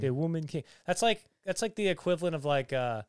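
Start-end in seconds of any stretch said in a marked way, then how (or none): 0.0-0.6 put-on accent, "de Woman King"; film aksanı taklidi. Shown as a demonstration. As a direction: lightly put on the movie accent. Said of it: "I actually prefer saying it like that".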